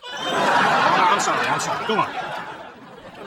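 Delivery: trying not to laugh. Acted. Cracks up at grieving pet owner.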